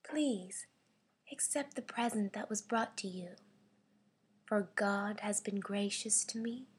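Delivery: quiet, understated regal poise; measured royal composure with pauses. Shown as a demonstration. Voice actor's audition read of offering a gift, mildly regal. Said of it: "this is my regally slash royally read".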